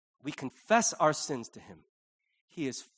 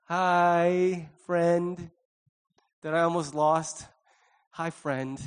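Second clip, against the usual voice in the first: nervous greeting; much slower than usual. Retold or imitated. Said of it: "that nervous giddiness".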